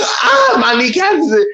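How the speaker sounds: high, pained cry of "my kneecaps"; hammed-up pained wail; mock pained scream. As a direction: imitate yelling in pain along with the movie. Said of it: "I'm like".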